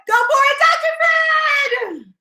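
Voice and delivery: high, loud, stretched cheer; cheering shout. Real, not acted. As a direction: shout him on with all you've got. Cheering on her coach.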